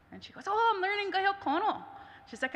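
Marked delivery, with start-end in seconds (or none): 0.5-1.8 lightly voiced, higher proud answer; a touch of excited pride; eager reply. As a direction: tell him proudly, a bit higher. Proudly telling the boy.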